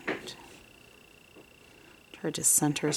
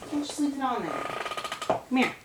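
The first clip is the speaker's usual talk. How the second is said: coaxing; 9 semitones higher, 4 dB quieter, faster than usual. Real, not acted. Coaxing the cat.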